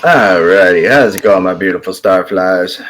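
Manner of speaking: loud, booming put-on host greeting; odd put-on voice. Real, not acted. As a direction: boom out the hello like a showman. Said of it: "I don't know why I'm talking like that".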